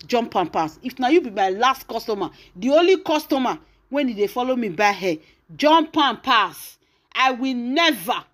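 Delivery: emphatic, mildly heated imitation of cursing; imitating an indignant denunciation; retold curse. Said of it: "priceless hair come dey curse am".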